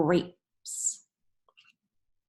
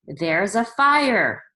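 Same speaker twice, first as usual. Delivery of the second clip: slow, louder call; yelled; 7 dB louder, much slower than usual. Shown as a demonstration. Teacher reads the man's warning aloud, slow and louder. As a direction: stretch out the warning. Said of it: "they're yelling".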